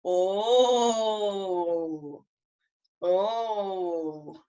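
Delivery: long, intrigued "oh"; juicy-gossip reaction. Shown as a demonstration. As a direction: draw out "oh" as if hearing scandal. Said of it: "whenever you hear some really good gossip".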